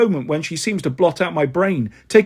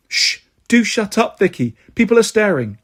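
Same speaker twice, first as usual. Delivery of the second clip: higher, exasperated hushing; urgent shushing; 4 semitones higher than usual. Acted. Girl hushing Vicky as library people stare, exasperated. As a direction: shush a friend who is embarrassing you.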